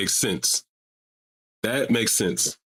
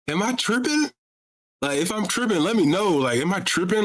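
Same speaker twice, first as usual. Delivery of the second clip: incredulous; 8 semitones higher than usual. Real, not acted. Incredulous appeal to chat.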